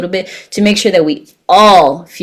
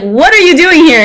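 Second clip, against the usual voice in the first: surprised question; 10 semitones higher, 5 dB louder than usual. Retold or imitated. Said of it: "they're like".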